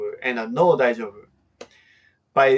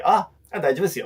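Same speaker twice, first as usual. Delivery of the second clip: cheerful okay; 3 semitones higher, much faster than usual. Shown as a demonstration. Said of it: "a question where I can say".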